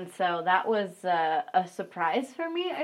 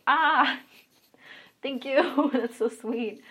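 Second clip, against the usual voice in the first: high, gushing thanks with a laugh; retold squeal of gratitude; touched gratitude; 5 semitones higher, 5 dB louder, much slower than usual. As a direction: gush a delighted thank-you, starting on a loud "ah". Retold thanks to happy fans.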